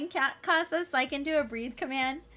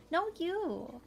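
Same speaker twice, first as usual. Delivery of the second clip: ordinary talk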